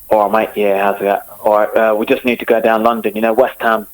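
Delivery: light Cockney London geezer; casual Cockney banter; Cockney accent. Shown as a demonstration. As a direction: put on a matey Cockney accent. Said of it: "give us a Cockney".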